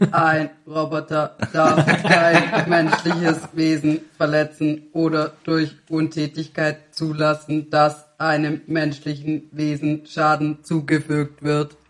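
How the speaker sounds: put-on slow, even old speech synthesizer; robot voice. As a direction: recite like a clunky old computer. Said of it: "Kriegst du das auch mit einer Roboterstimme hin?".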